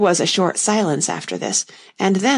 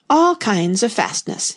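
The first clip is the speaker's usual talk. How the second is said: slow, steady repetition; slow repeating; 3 semitones higher, slower than usual. Acted. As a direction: repeat it slowly from the ditch. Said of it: "he repeated".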